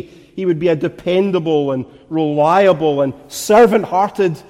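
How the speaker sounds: firm, driving pulpit cadence; insistent preaching. Real, not acted. Preacher urging minds set on things above, insistent preaching. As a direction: pile up each point with mounting conviction.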